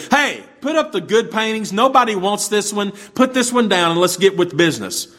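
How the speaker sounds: high-pitched heckle from the crowd; heckling shout. Retold or imitated. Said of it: "this man in the room shouted".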